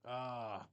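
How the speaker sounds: soft, resigned sigh; disappointed sigh. Real, not acted. Fan facing Zach Wilson's final game, disappointed sigh. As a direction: let out a quiet, wistful sigh. Sorry to see quarterback likely leave.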